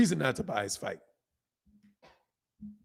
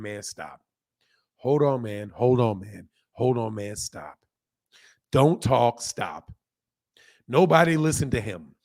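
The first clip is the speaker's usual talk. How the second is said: hypnotist voice; 3 semitones lower than usual. Retold or imitated. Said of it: "like you're a hypnotist or something".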